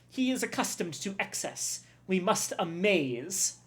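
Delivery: put-on a proud chef in a French accent that drifts Middle Eastern; bad French accent. Cook boasts of his new recipe, in a bad French accent. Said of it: "I'm trying to give him a French accent".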